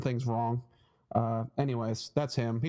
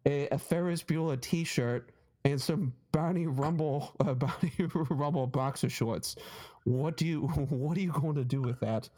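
put-on Boston accent. Comic quizzing his hoarder mom, imitated Boston accent. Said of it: "he's got a really thick Boston accent".

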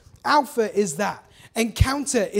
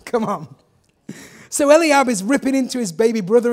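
ordinary talk, nothing marked

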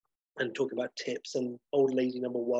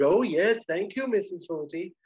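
put-on high, polite old-lady chorus; old ladies chorusing; 7 semitones higher, 4 dB louder than usual. Two old ladies answering the hotelier together, high polite chorus. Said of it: "both at the same time".

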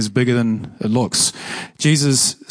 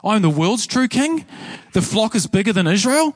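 high, rising mock-incredulous questions; a touch of imitated outrage; shocked disbelief; 6 semitones higher than usual. Israelites shocked at claim.

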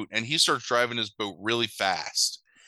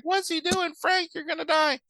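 much higher, hammed-up damsel in distress; panicked heroine. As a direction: play the frantic heroine over the top. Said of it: "And she's like".

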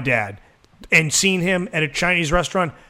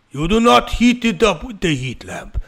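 put-on raised, insistent Mexican accent; mock Mexican waiter; 4 semitones higher than usual. Waiter warning the kitchen, higher mock-stern Mexican accent. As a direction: lift the pitch for a stern hammed-up Mexican-accent order. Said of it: "a waiter going to the back and be like".

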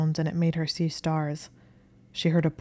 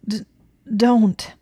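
high, loud desperate cry; choked out; 6 semitones higher, 8 dB louder than usual. A narrator's reading. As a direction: choke out the plea in panic. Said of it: "Hermione choked out".

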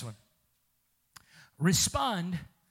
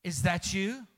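calling to wife; 4 semitones lower, 3 dB quieter than usual. Retold or imitated. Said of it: "I don't have to say".

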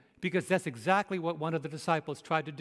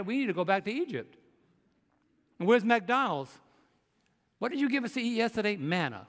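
playful griping at Moses; hammed-up indignant grumbling; mock angry complaint; 4 semitones higher than usual. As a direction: whine about the food like a fed-up crowd. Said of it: "Didn't they get mad at Moses?".

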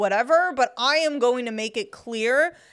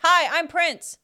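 lightly voiced singer impression; barely changed singer voice; deliberately lame impression of a singer; singer impression; 5 semitones higher, slower than usual. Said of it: "my impression of Prince".

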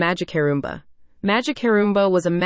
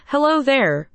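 lightly voiced cute baby, pitched up; cute, high-pitched voice; 6 semitones higher, slower than usual. A narrator's reading. Baby bad guy greeting Liza and the princess, cute and high-pitched. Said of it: "in a cute, high-pitched voice".

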